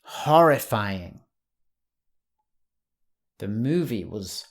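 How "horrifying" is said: "Horrifying" slow and louder; emphatic slow model of "Horrifying". Shown as a demonstration. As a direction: lean into "Horrifying" slowly. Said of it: "you could say horrifying".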